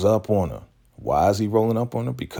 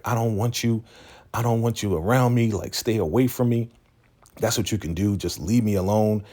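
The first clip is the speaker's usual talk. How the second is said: rejecting; 5 semitones higher than usual. Retold or imitated. Acted rejection of a suitor.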